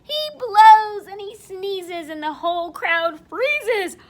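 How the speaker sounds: loud, high storytelling; dramatic narration. A narrator's reading. Storyteller tells children the crowd freezes, loud and dramatic. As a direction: project the shock of it. Story climax, bear sneezes.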